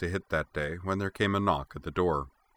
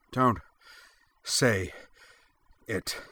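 snarled between gasps; 4 semitones higher, slower than usual. Acted. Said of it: "he snarled between gasping breaths".

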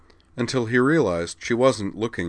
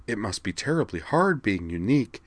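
mocking imitation; 3 semitones higher than usual. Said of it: "mocking imitation".

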